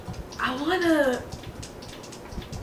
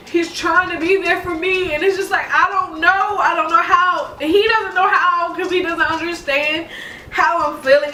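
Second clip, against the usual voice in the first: higher voice, about to cry; tearful, close to crying; 5 semitones higher than usual. Real, not acted. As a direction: speak through real tears about him. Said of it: "I'm ruining my makeup".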